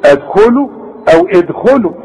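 ادخلوا begun with a wrong vowel; faulty readings. Shown as a demonstration. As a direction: misplace the first vowel of ادخلوا. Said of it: "علشان ما تقولش".

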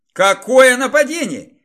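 high, loud bewildered question; baffled, not getting it; confused surprise. Acted. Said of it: "не сразу врубилась девушка".

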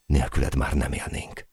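quiet, understated gratitude; grateful. A narrator's reading. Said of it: "hálálkodtam". (halk, visszafogott hálálkodás)

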